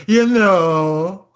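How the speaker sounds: lightly put-on posh English accent; plummy English snob; a touch of upper-class English. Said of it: "say it with big English teeth".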